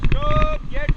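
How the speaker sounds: sharp, high, loud yell; shouting. Real, not acted. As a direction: call out over roaring water. Rafting guide calling over rapids.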